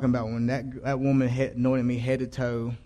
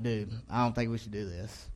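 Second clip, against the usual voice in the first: softer, an understated private misgiving; retold inner doubt; 2 semitones lower, 8 dB quieter than usual. A young churchgoer privately doubting the party plan, quietly.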